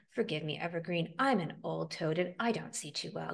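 lightly voiced elderly toad; a hint of a grandpa apologizing; mildly subdued old-timer.

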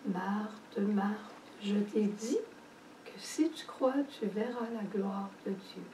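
Jesus gently correcting Martha, soft and patient. Retold or imitated. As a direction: correct her tenderly, without pressing. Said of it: "la reprend très doucement".

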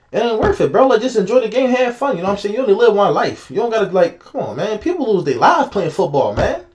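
emotional pleading. Real, not acted. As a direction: urge him to enjoy the game. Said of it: "I get emotional when I talk about".

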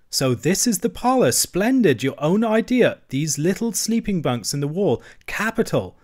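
rally a downhearted friend; cheery bustle. Acted. Rat cheering up gloomy Mole.

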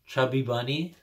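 lightly mumbled round a marshmallow; mouth full. Real, not acted. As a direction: talk past a mouthful. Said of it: "put this in my mouth and say".

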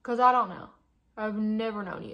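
mock-outraged at the mascara; indignant outburst. Real, not acted. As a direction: blurt it out, offended.

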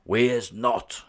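high, loud chorus shout of giants. A narrator's reading. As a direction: yell it back as a gang of giants. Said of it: "shouted the other giants".

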